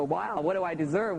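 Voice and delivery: the mind asks "what do I deserve?" with a lift on "deserve"; mock bewildered. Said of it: "the computer banks go".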